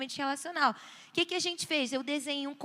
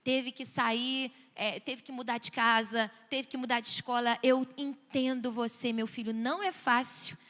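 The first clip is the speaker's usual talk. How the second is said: lower, gentle understanding voice; validating parent; 3 semitones lower than usual. Shown as a demonstration. Parent validating child's sadness over moving, gentle low voice. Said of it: "E validar".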